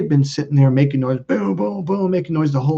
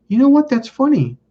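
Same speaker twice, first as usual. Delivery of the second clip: surprised friend; 10 semitones higher, 4 dB louder than usual. Retold or imitated.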